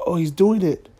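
lightly voiced excited onlooker, first spotting him; half-whispered tourist nudging a friend; a hint of a gawking tourist; mock tourist gasp. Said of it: "people from Japan were like".

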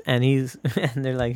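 normal talking voice

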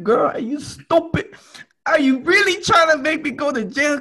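very high, loud shout; furious yell. Retold or imitated. Yelling at his friend about the hidden bag, furious shout. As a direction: scream at your friend in disbelief. Learning friend brought cocaine.

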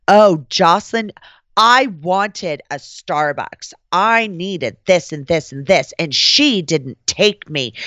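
imitating a diva's drawn-out complaint; slow, aggrieved tattling, put on for a retelling; mock complaining diva. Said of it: "ripped me to shreds".

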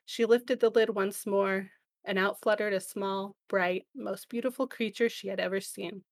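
measured storybook reading, a touch of drama; reading lyrics aloud. Acted. Host reads album intro lyrics to guest, gently narrated. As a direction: read it like a myth being told. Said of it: "let me read those lyrics here for you".

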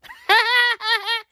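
high-pitched rapid cackle; rattling high laugh; signature odd laugh. Real, not acted. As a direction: cackle high in a quick staccato burst. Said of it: "That's how I laugh".

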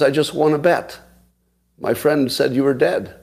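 retold excited caller. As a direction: act out a caller thrilled to win, at modest volume. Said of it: "And she screams".

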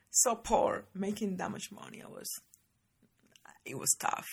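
crying through the words; blubbering. Real, not acted. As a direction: voice breaking with tears. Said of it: "I'm so sorry for the crying".

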